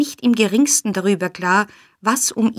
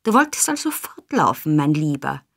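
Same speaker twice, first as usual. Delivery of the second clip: menacing rebuke; 3 semitones lower than usual. A narrator's reading. Fagin confronting the runaway Oliver, menacing rebuke. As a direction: round on him with mock endearment. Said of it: "fuhr ihn an".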